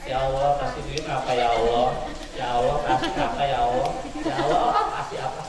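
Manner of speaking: low, lazy mock prayer; lazy mumbled prayer. Preacher imitating a lazy santri's prayer. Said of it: "Jangan kayak gini".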